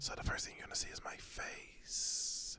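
spooky Halloween whisper; creepy whisper. Pretend. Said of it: "that's my Halloween voice".

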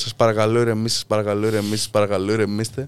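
low, repeated placating plea; retold calming plea. Guest replaying how he begged a raging homeowner to calm down, placating. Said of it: "Προσπαθούσα να τον ηρεμήσω".

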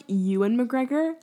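"Ewan" drawn out slowly as YOU-en, questioning; "Ewan" as YOO-un, slow and querying; mocking correction. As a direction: say "Ewan" with a clear Y, as a teasing query. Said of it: "John made fun of me".

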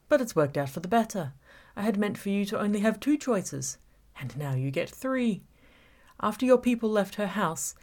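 menacing villain toying with Gabby; villain Sean taunting. Acted. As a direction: savour every word of the trap. Villain Sean's taunting speech.

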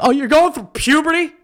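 high mocking tone; mocking teasers. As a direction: tease like a smug friend. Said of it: "everyone's like".

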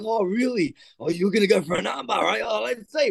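light, high teasing as if unconvinced; playful doubt. Retold or imitated. Coach ribbing a nine-year-old about his armbar, teasing doubt. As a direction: egg the kid on with mock disbelief. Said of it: "I'm like".

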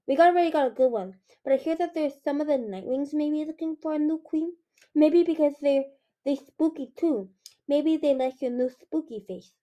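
put-on helpful kids who don't get the danger; cheeky little dragonettes. Dragonettes chatter back at the queen.

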